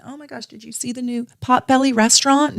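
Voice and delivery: high, giddy gossip voice, mocking; chatty yoga gossips. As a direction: ape two chattering busy bees, high-pitched.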